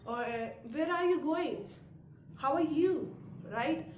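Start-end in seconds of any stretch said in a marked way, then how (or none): 0.8-1.7 every word of "Where are you going" sounded in full; deliberate, distinct words; clear, careful enunciation. Shown as a demonstration. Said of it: "we'll just clearly say". 2.4-3.1 "How are you" with each word sounded in full; deliberate, distinct phrasing; clear, careful enunciation. Shown as a demonstration. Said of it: "we'll just clearly say".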